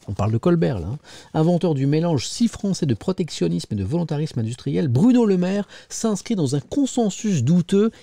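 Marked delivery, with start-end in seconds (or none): 1.3-7.9 emphatic newspaper reading; editorial read-aloud. Acted. Presenter reading a scathing editorial to viewers, emphatic read-aloud. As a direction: read it out in measured phrases.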